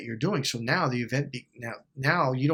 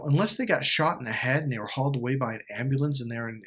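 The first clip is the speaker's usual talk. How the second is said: ordinary talk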